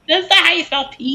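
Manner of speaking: amused high-pitched objection; laughing protest. Real, not acted.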